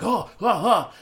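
excited squeal. Retold or imitated. Mock excited squeal at Comic-Con.

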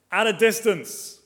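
slow, weighty at a distance; stressed phrase. Shown as a demonstration. Preacher to congregation, slow stress on at a distance. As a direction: lean on at a distance, drawn out slowly. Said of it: "Mark those words".

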